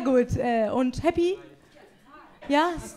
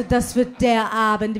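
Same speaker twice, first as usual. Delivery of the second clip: slow, savoured anticipation; drawn-out excited vow; slow hyped promise; 5 semitones lower, slower than usual. Retold or imitated. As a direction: draw it out like big plans. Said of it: "Ich so".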